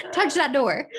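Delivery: slow, deliberate mock warning to the dog; mock threat. Owner daring her dog to touch the door, slow mock threat. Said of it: "so I'm like".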